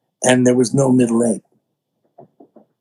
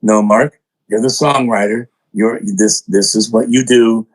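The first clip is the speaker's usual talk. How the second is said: lightly voiced inner self, a bit lower; 4 semitones lower than usual. Talking himself back into songwriting, a bit lower. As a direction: scold yourself gently in a slightly lower voice. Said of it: "my split personality".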